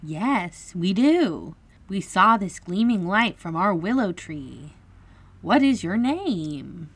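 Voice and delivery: high, loud little fairy voice; high storybook fairy, slightly nervous. A narrator's reading. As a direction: pipe up bravely but nervously. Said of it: "said nervously".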